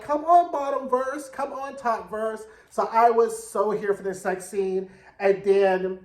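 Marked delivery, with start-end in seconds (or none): 0.0-2.4 cheering. Retold or imitated. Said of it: "I was like".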